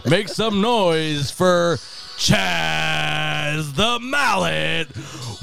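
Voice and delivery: slow drawn-out arena announcer; grand entrance announcement. Pretend. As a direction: stretch each word like a PA announcer. Mock starting lineup announcement.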